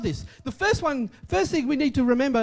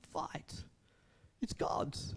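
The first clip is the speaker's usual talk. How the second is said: hushed, breathy aside to the congregation; whisper; 9 semitones lower, 15 dB quieter, much slower than usual. Real, not acted. Preacher hushing the room, whispered. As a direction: drop to a whisper for weight.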